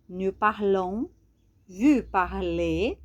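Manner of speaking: slow, silent final consonants; slow model forms. Shown as a demonstration. Teacher to students, slowly modelling forms without final consonants. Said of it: "não falamos esse S".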